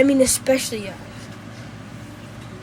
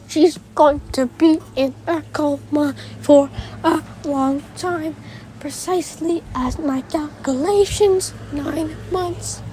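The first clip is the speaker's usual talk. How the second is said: monotone robot voice; flat mechanical robot delivery; 2 semitones higher than usual. Retold or imitated. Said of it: "that robot voice is the best robot voice I can do".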